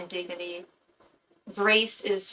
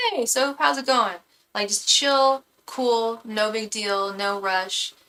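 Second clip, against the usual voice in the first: mock-chill instructor, raised pitch easing back down; imitated laid-back calm; 2 semitones higher, slower than usual. Streamer imitating her calm art instructor, laid-back and chill. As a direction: play her as totally unhurried. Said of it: "this calm ass demeanor".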